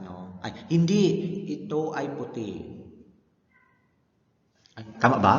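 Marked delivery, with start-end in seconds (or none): 0.4-2.5 hindi said high, then ito ay puti; teacher model of juncture; juncture contrast. Shown as a demonstration. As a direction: mark the pause after hindi. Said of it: "Parang something like that".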